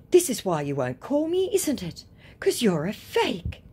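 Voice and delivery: pretend outrage. Woman calling out the fake, pretend outrage. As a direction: accuse with put-on indignation. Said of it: "pretending to be outraged".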